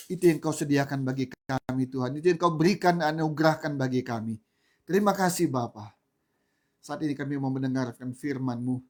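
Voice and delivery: earnest spoken prayer to the Father. Acted. Pastor praying over the congregation, devout prayer voice. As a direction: pray it sincerely, steady and devout.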